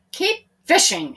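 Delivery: mild command from Peter; a touch of leader's order. A narrator's reading. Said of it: "he commanded".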